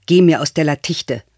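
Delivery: ordinary delivery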